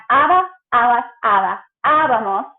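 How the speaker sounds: abamos with the voice up on its first A; accented abamos. Shown as a demonstration. Teacher drilling A R imperfect endings, accented abamos. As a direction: lift and lean on the first syllable of abamos. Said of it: "Your voice goes up with that accent mark".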